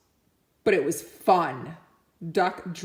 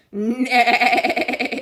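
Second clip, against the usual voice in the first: horse neigh; 5 semitones higher, 6 dB louder than usual. Acted.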